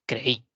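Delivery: «creí» in two syllables, cre - í; dos sílabas. Shown as a demonstration. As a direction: give «creí» two beats, stress on the I. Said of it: "hacemos dos emisiones de voces". («creí» en dos emisiones de voz: cre - í)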